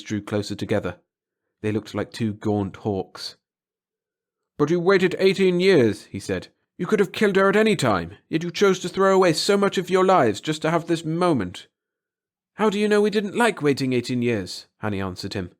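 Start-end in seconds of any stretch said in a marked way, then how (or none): 4.6-11.7 baffled reproach. A narrator's reading. Brother confronting his sisters. 12.5-14.7 mocking taunt. A narrator's reading. Sister taunting her brother.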